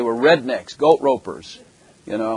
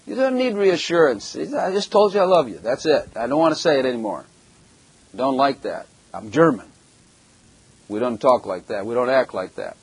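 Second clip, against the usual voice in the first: gruff German husband. Retold or imitated. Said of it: "Constantly reassure her".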